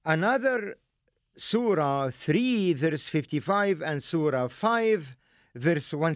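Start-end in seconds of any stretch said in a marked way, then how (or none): none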